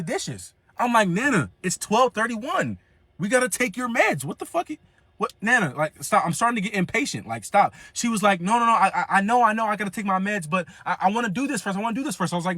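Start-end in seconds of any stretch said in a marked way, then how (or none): 1.1-7.7 high, impatient scolding; mock exasperated nagging. Losing patience with grandma. 8.4-12.3 higher, pleading grandma; stubborn nana wheedling. Retold or imitated. Grandma voiced refusing.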